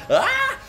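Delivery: high startled yelp of disgust; short high panicked cry; mock shriek. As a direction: shriek at the leech. Big leech on his head.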